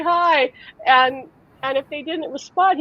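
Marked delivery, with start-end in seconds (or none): 0.0-0.5 put-on cheerful little boy. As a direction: greet a stranger like a joyful toddler. Son's greeting again.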